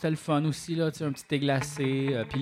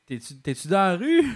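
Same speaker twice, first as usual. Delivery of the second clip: mocking voice; 6 semitones higher, 6 dB louder than usual. Quoting an awkward person.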